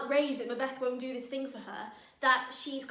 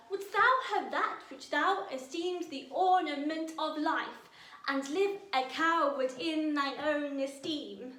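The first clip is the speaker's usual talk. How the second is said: loud, raised verse read with an even beat on every line; rhythmic verse reading; 4 semitones higher, 5 dB louder, slower than usual. Shown as a demonstration. Teacher tapping out the verse rhythm for students, loud and even. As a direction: declaim it evenly, riding the ten-beat rhythm. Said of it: "let's really find the musicality of it".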